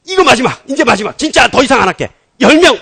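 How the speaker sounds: high, loud mock begging; urgent pleading. Preacher acting Abraham's last plea to God, urgent haggling. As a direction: bargain insistently, promising it is the end.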